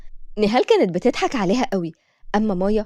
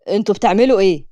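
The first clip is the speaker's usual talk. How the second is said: thick voice; 2 semitones lower, 4 dB louder than usual. Acted. Unseen adult catches the girls, thick stern voice. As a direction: catch them red-handed in a heavy voice. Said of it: "صوت تخين جاي من وراهم".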